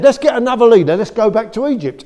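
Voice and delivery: high, loud mock rabble-rousing; the Israelites calling to turn back, loud; rebellious crowd cry. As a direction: shout it like a grumbling mob.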